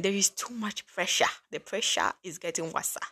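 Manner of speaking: lightly put-on African accent; a hint of an African accent. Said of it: "Let me say it with an African accent".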